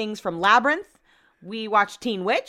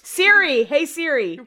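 high, raised call; calling out to assistant; 4 semitones higher than usual. Real, not acted. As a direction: summon the phone assistant.

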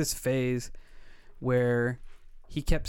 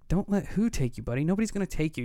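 higher-pitched, lightly acted dad soothing a child; mild retold reassurance; 5 semitones higher, faster than usual. Dad answering his son at three in the morning, lightly acted reassurance. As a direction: imitate talking a scared kid down, pitched up.

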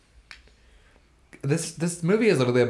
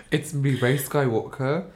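slow put-on British accent; Rey impression; slower than usual. Co-host introducing the movie heroine, slow British accent. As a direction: draw it out in mock British. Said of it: "doing my Rey impression".

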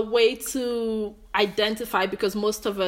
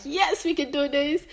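heart's eager cheer; 7 semitones higher than usual. Pretend. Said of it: "My heart is like".

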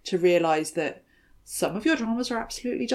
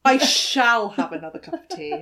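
put-on stagey old movie actor; 3 semitones higher, 4 dB louder than usual. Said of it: "I was like".

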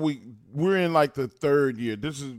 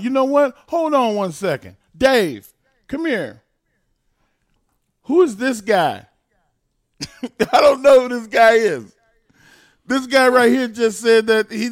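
high, raised-voice calling-out for the crowd; loud mock outrage; 6 semitones higher, 5 dB louder than usual. Wrestler calling Dave over to confront a quitter, mock-outraged. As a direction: summon a colleague over, building to a shout.

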